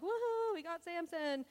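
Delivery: high, excited mock cheer of the enemy; gloating cheer. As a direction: crow it like a bunch of gloating Philistines. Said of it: "the Philistines are all like".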